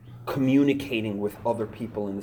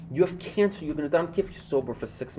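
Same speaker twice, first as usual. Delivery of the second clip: reminding message; 6 semitones higher, faster than usual. Retold or imitated. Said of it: "give each other these messages".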